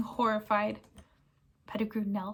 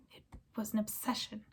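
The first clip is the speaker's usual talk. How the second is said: quiet confession; 11 dB quieter than usual. Acted. Sirius confesses his obsession.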